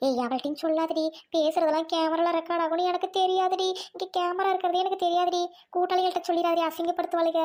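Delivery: steady, insistent begging; anxious pleading. Acted. Caught woman begging girl not to tell friends, pleading. Caught thief begs for secrecy.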